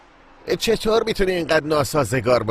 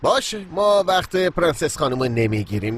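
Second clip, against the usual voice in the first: sarcastic; 2 semitones lower than usual. Acted. Mocks partner as spoiled princess.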